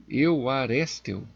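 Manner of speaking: Euarestel stretched to half speed; unsure pronunciation. Real, not acted. Preacher retrying the Greek word he can't pronounce, slow unsure pronunciation. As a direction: try Euarestel slowly, as an unfamiliar word. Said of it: "Eu não sei como é que pronuncia".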